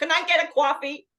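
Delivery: loud, bad put-on New York accent. Quoting a woman from New York asking for coffee: bad fake New York accent. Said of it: "She's from New York. ... that's a really bad accent".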